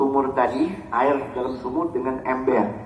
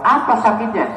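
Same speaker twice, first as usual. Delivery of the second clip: high, loud questioning; mock impatient demand; exasperated doctor; 10 semitones higher, 5 dB louder than usual. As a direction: press the patient for an answer, exasperated. Acted doctor questioning a silent patient.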